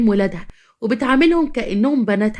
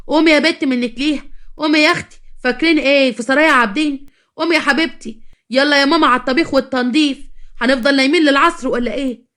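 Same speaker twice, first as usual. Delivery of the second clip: calling out; 4 semitones higher than usual. Acted. Mother-in-law waking daughters-in-law.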